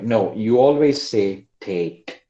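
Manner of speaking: "always" stretched and slow; stress on always. Shown as a demonstration. Teacher correcting a common error, stressing always. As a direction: lean on "always" with a slow fall. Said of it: "teacher correction".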